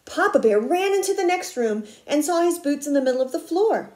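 quick, lively read-aloud; picture-book telling at a fast pace; brisk story narration. A narrator's reading. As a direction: hurry through the narration for young listeners.

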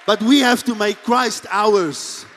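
emphatic. Real, not acted. Preaching climax.

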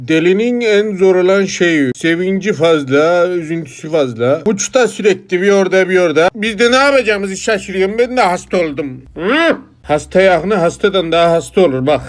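overwhelmed parent, pitch climbing a little; bunalmış ebeveyn. Acted. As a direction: complain as a carer losing their own grip. Plays worn-out parent of madman. (bunalmış hasta yakını, hafif tizleşen sesle)

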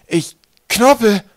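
slow, high, loud and muffled; mouth-full voice. A narrator's reading. Swollen boy tells Twig who he is, mouth-full voice. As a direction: blurt it slowly as if the mouth is stuffed. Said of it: "als ob Knorpel mit vollem Mund redete".

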